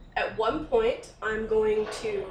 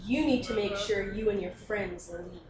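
menacing warning; 3 semitones lower, 4 dB quieter than usual. Acted. Player intimidates the begging victim.

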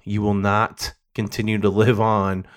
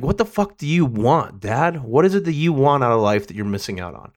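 higher-pitched, pleading demand, retold; insistent demand; 3 semitones higher than usual. Son asking dad what he wants from life, insistent. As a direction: press the question in a retold confrontation.

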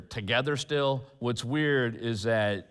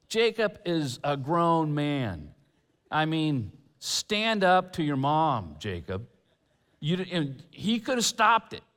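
louder, higher exasperated rant; getting angry; 6 semitones higher, 3 dB louder than usual. Real, not acted. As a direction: scold him with real frustration. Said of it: "Getting a little angry there".

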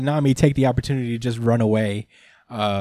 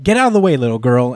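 dismissive Big Mom; 5 dB louder, faster than usual. Retold or imitated. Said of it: "she was basically like".

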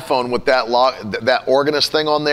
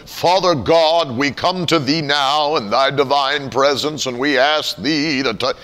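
slow, solemn mock-pious prayer; super spiritual prayer voice; slower than usual. Churchgoer asked to pray, slow mock-pious prayer voice. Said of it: "they go into this voice".

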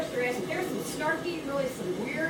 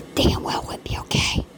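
a hard whispered aside; sudden whisper. Real, not acted. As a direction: drop to a fierce whisper. Whispered aside mid rant.

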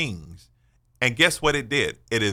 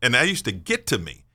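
ordinary delivery

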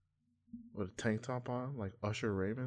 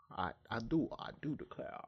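Foghorn Leghorn impression; 3 semitones higher than usual. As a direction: put on a cartoon Southern gentleman accent. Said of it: "frog horn, leg horn impression".

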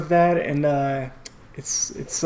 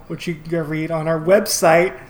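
aggressive; 4 dB louder than usual. Real, not acted. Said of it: "you said that so aggressively".

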